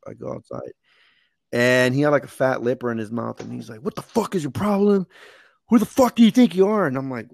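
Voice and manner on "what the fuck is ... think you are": higher-pitched mock angry corporal; imitated chewing-out. Corporal lays into a junior Marine, imitated angry chewing-out. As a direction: retell an irate superior laying into a junior Marine. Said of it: "chewing me out".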